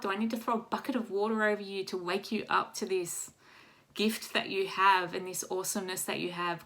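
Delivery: lightly voiced scolding whale; a hint of a bossy whale waking her up. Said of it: "I think the whale spat on me".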